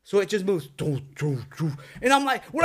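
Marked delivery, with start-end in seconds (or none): 0.7-1.7 mouthed window knocks, evenly spaced; imitated knocking. Storyteller imitates the window knocking by itself, spoken knocks. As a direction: voice the knocks as short "doo" sounds. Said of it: "like someone's knocking it".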